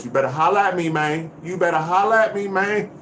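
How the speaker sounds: street-slang swagger, calling out; tough, streetwise hype voice; hood voice. Pretend. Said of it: "Be my hood voice".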